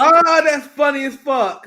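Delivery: laughing it out, slow and loud. Real, not acted. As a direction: crack up at the absurdity. Reacts laughing to absurd poll.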